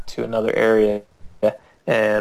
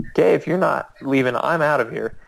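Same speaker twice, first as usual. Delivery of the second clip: raised pitch, quick and insistent; urgent ultimatum; 4 semitones higher than usual. Retold or imitated. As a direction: replay giving up on a clueless companion. Retold ultimatum to clueless companion.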